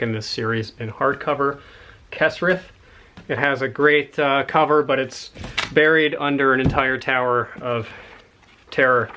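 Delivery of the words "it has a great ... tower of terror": panting between words after climbing; winded, catching breath while talking. Real, not acted. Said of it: "Sorry I am out of breath".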